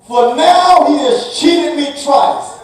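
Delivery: desperate exclamation. Acted. Esau crying out against his cheating brother, loud and desperate. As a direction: shout the betrayal to heaven. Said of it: "Esau exclaimed".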